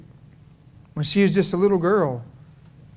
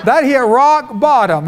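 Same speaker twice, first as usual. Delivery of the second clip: laughing; 4 semitones higher, 4 dB louder, slower than usual. Real, not acted. Preacher laughs at story.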